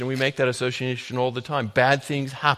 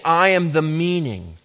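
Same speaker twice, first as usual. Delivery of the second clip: ringing, louder proclamation in the first person; preached voice of Jesus; 2 semitones higher, 5 dB louder than usual. Acted. Preacher voicing Jesus to the congregation, proclaiming loudly. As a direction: declare it as Jesus, rising and full. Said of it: "Jesus is saying".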